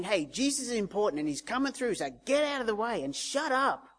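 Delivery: officious retold order to clear off; bossy crowd. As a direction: imitate a crowd shooing someone aside. Crowd telling beggar to shut up.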